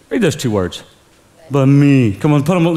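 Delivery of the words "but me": self-pitying but me. Shown as a demonstration. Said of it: "say it like that".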